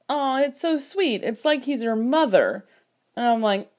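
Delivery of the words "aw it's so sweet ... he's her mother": lightly voiced gushing; mock cooing. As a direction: imitate someone finding it adorable. Voicing bassist cooing over the pair.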